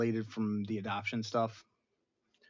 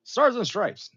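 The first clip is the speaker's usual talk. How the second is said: louder, higher heroic voice; video game Steve Rogers; 9 semitones higher, 7 dB louder than usual. Retold or imitated. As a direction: play the gruff game hero. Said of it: "video game Steve Rogers".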